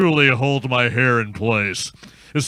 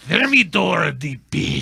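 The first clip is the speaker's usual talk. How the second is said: shouted villain order. Acted.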